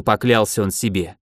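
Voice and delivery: plain reading voice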